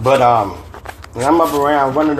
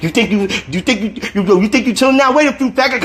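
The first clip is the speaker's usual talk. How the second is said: 1 threatening dream voice; 7 semitones higher, faster than usual. A narrator's reading.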